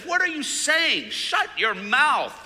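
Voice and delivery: high, loud rebuke, slowed on shut your mouth; high, loud defence from the other cross; angry yell. Retold or imitated. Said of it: "yelled at his other friend".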